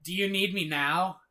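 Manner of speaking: a touch of panic, pushed up high and loud; frantic. A narrator's reading. James in the earpiece asks Tony in a rush, frantic. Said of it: "James says frantically in the earpiece".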